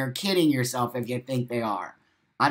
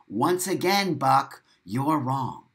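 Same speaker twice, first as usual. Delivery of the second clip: put-on scolding a child; slower than usual. Critic scolding Buck for disagreeing, slow condescending scold. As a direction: talk down to him like a naughty kid. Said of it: "Who talks like that?".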